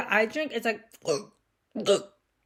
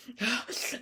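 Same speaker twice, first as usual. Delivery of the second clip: imitated gasp; 7 dB quieter than usual. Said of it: "panting hard as fuck".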